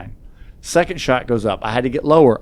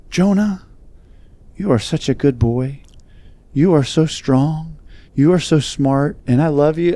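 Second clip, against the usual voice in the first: doting grandma; 4 semitones higher than usual. Retold or imitated. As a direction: gently imitate a grandmother soothing her grandson. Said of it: "she was in there holding him".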